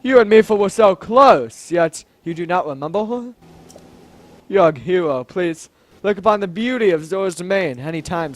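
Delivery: lightly voiced dismayed king; a hint of stately royal reproach; deep manly voice. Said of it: "let's give him a deep, manly voice".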